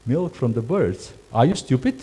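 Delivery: mock scornful reply; rude reply. Shown as a demonstration. Crew member mocks guest's odd request, scornful. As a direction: sneer at the guest's question. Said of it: "No, you have to say".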